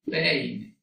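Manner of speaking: "Peine" split into syllables, "ei" kept together; in lettergrepen. Shown as a demonstration. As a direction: say "Peine" as two drawn-out syllables, Pei-ne. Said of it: "Al momento de hacer la separación".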